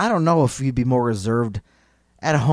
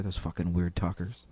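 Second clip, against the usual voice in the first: whispered grumble; 6 semitones lower, 11 dB quieter than usual. Pretend. Muttering mock grumble.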